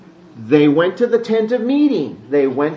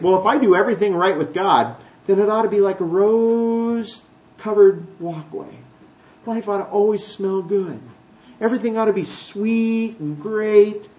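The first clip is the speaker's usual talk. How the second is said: naive wishful Christian; 3 semitones higher, 3 dB quieter than usual. Retold or imitated. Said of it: "sometimes Christians think".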